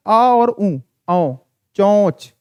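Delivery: आ and nasal ऊ blended into औ; nasal औ, then the whole word चोंच; chandrabindu sound demo. Shown as a demonstration. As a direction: show चोंच with a nasalized vowel. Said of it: "इसका उच्चारण क्या होता है".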